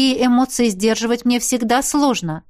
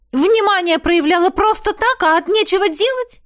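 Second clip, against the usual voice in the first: indignant; 11 semitones higher, 4 dB louder than usual. Acted. Heroine angrily confronts Max.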